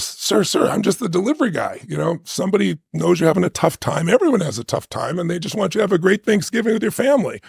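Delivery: lightly voiced kind stranger, coaxing; delivery guy. Delivery guy coaxing the proud father at the door, gently. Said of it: "he goes".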